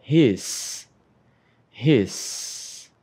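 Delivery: "His" said short and crisp; short model word. Shown as a demonstration. Teacher shows students "His" is short, said crisply. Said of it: "É mais curtinho".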